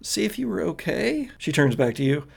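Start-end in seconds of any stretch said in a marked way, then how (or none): 0.0-1.3 put-on higher, mildly unsure girl's voice; confused. Girl checking on boyfriend, mildly confused. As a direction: lose the thread a little. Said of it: "gets kinda confused again".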